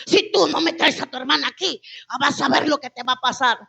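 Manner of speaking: loud opening, imitating an angry father; acted parental warning; stern threat. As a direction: lay down a threat as the strict father.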